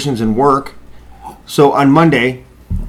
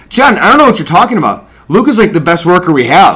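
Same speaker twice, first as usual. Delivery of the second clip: higher, raised retold protest; indignant defence; 3 semitones higher, 5 dB louder than usual. Coworker retelling Ruby defending Luke to the boss, indignant. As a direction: stick up for someone, mock-indignant.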